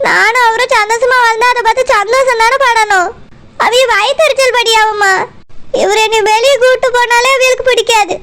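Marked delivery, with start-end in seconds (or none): 0.1-5.1 laughing through tears. Acted. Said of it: "எதுக்கு அழுதுட்டே இருக்கா?".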